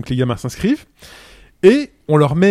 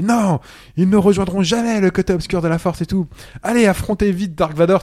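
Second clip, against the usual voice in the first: higher-pitched, lightly acted Jedi master; mock-heroic refusal, pitched up; 4 semitones higher than usual. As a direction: play the master rallying young pupils. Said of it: "le maître Jedi, il fait".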